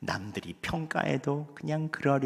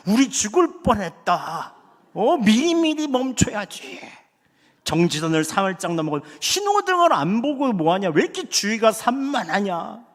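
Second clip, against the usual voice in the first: loud, higher mock scolding of the wife; fault-finding rant, raised voice; nagging shout; 8 semitones higher, 7 dB louder than usual. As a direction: replay the petty driver yelling at her. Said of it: "목소리를 높이고 꼬투리를 잡았죠".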